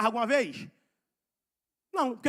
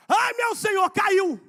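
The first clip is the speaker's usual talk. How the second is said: put-on boy's shout; 7 semitones higher, 6 dB louder, slower than usual. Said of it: "o menino gritou assim".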